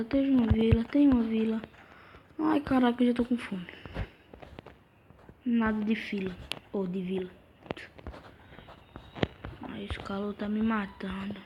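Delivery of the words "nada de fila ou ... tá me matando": voiceless whisper. Real, not acted. Gamer whispering to himself about the heat. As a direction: whisper it to yourself. Gamer muttering alone while playing.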